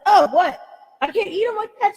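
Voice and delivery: put-on high, loud childish surprise; surprised child. Little girl asking mom about raw seeds, childish surprise. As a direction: voice the little kid amazed. Child self voiced in story.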